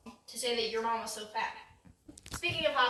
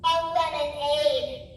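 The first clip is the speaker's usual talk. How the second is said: punchline voice; 2 semitones higher, 6 dB louder, slower than usual. Acted. Punchline in put-on voice.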